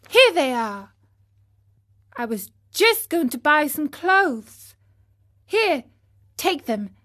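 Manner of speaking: generous puppet pressing his coins on her; eager boy. Acted. Pinocchio gives the snail his pennies, earnestly.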